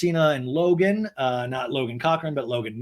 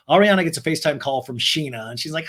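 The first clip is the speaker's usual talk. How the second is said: usual speaking voice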